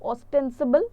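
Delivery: ostensible said slowly and clearly; slow careful pronunciation. Shown as a demonstration. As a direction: stretch out ostensible for the class. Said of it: "अगर आप word को देखो". (ostensible को धीरे से साफ़ बोलना)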